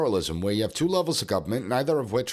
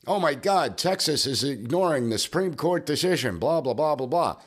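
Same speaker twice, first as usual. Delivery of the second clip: mildly mocking outcry, pitched up; mock screaming; 4 semitones higher than usual. Host mimics critics of Texas ignoring the court, mock screaming. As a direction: imitate outraged critics, lightly, trailing into dismissive blahs. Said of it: "they're screaming".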